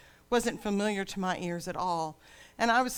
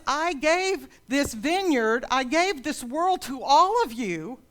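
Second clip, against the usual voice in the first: loud, higher, booming divine rebuke; voice of God; 7 semitones higher, 6 dB louder than usual. Acted. God rebuking people who think their grapes are better, booming loud. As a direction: thunder it down from heaven at proud people. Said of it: "God says".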